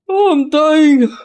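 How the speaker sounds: strained high squeak from hiccups; hiccuping. Real, not acted. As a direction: fight through a hiccup fit. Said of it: "I'm hiccuping too much".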